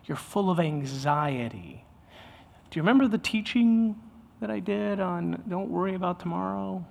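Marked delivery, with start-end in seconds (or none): 0.0-1.8 gentle diagnosis. Acted. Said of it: "he identifies the problem as".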